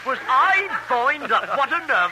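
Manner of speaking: put-on Brooklyn accent. Pal at a command performance in a Brooklyn accent. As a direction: joke in a thick Brooklyn accent. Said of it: "where's your British accent".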